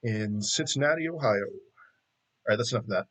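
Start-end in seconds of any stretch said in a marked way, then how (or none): 0.0-1.4 smooth slow radio announcer voice. Pretend. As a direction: lean into a silky radio host. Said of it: "Smooth A M radio voice".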